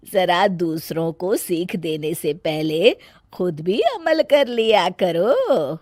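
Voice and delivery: mother-in-law teaching her bahu a lesson; calm mother-in-law rebuke. Acted. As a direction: set the bahu right without raising your voice.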